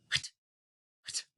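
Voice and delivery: hat said with no a, just a clipped t; vowel removed. Shown as a demonstration. Teacher to children, saying hat without its vowel. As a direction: drop the vowel and say what. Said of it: "if my vowel a sound was not there".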